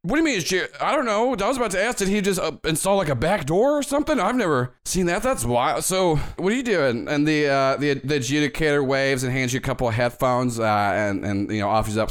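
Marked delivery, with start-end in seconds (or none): 0.0-7.1 lightly voiced high bellhop; a hint of a chirpy bellhop; chirpy old-fashioned bellhop. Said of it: "Jenkins is like".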